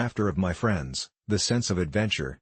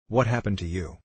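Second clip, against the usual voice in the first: shaky, frightened question; trembling voice. A narrator's reading. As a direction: ask it with a trembling voice. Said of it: "my voice trembling".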